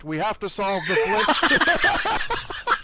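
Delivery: slow, rallying presidential speech; Obama impression voice. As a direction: build like a campaign rally. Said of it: "I do this impression out of love".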